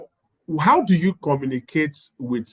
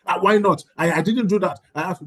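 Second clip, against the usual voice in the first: higher, louder mock protest; defensive; 6 semitones higher, 3 dB louder than usual. School head answering an angry parent back, defensive. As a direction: act out defending yourself, voice jumping up. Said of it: "you start defending your actions".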